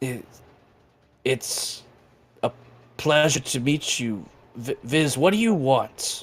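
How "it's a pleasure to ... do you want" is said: dragon voice with echo. Voicing a dragon that asks the players what they want: echoing dragon voice. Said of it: "you hear this voice echoing through the water".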